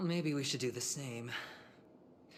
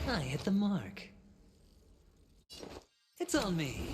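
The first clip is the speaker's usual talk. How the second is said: high, loud combat cry; battle shout; 8 semitones higher, 6 dB louder than usual. Acted. Fighter calling out a strike mid-battle, loud shout. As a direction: yell it out as the hit lands.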